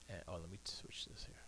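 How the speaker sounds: whispered aside. Real, not acted. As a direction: murmur it under the breath.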